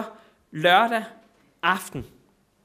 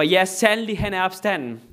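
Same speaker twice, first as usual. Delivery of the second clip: louder joyful response; congregation calling back; 3 semitones higher, 4 dB louder than usual. Retold or imitated. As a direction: answer as the whole crowd. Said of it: "alle råber".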